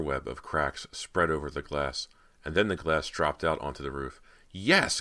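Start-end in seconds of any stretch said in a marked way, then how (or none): 4.5-5.0 high, loud cheer; happy cry. A narrator's reading. Cody breaks the window, happy loud cry. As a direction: exclaim with delighted relief. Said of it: "Cody cried happily".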